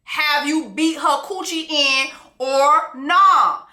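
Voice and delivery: slow, drawn-out mock queen mother; a hint of a prying mother-in-law; lightly voiced mother. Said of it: "She hears his mother asking".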